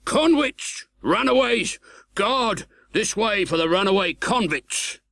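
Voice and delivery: high, loud shouted alarm; calling out. A narrator's reading. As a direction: raise the alarm across the marshes. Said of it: "and another voice".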